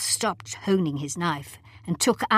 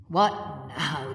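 testily. A narrator's reading. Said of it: "the doctor asked testily".

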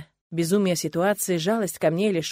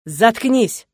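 louder barked order; commanding shout; 3 semitones higher, 8 dB louder than usual. Acted. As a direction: order her to shut up. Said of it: "приказывает Родрик". (громкий приказ)

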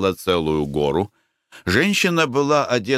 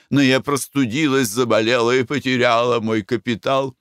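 faded French singer; 3 semitones higher than usual. Acted. Owner boasting of her singing career to the Russians, theatrical. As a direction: play a vain ex-singer lamenting her lost voice.

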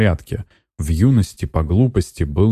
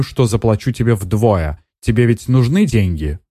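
angry demand; 4 semitones higher than usual. Acted. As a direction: push her hard, no more waiting. Netta demands the murder today. (Нетта давит на сиделку, требует громче и выше)

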